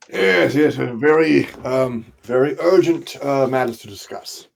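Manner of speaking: lightly played self-important envoy; puffed-up importance. Player puffing out chest before the guards, mildly pompous. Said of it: "Puff out my prestigious, uh, uh, chest".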